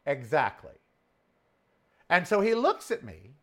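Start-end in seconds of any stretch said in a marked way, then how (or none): 0.1-0.8 very slow, high daring challenge; slow dare. Retold or imitated. Repeating the dare to the guard, slow and taunting. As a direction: stretch it out, taunting. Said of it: "I said".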